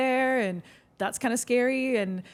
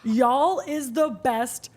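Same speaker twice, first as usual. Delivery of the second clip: Southern drawl; 4 semitones higher, 4 dB louder, slower than usual. Retold or imitated. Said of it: "It's just like".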